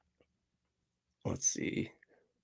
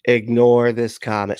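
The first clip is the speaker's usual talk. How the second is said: all caps read; 2 semitones higher, 7 dB louder than usual. Retold or imitated. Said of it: "It was all caps".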